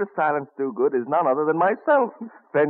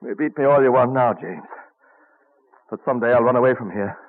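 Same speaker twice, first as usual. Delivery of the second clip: loud, stubborn vow; defiant; 4 dB louder than usual. Acted. Benjamin, just beaten, defiantly tells his brother James he'll run away. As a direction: throw the promise back at him. Ben defiant after the beating.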